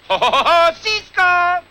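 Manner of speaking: booming ho ho laugh; hearty laugh. Acted. Narrator joins parody laughing.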